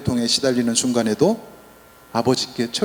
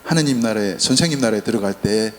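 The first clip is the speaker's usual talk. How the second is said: humble plea; 2 semitones lower than usual. Retold or imitated. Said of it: "이렇게 당부를 하는 거예요".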